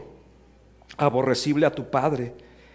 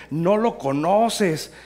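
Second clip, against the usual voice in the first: slow, stretched-out taunt, louder and raised; teasing disbelief; 4 semitones higher, 5 dB louder, much slower than usual. Retold or imitated. Pastor teasing Antonio about his companion, teasing disbelief. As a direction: drag it out in mock disbelief. First take, teasing before laughing.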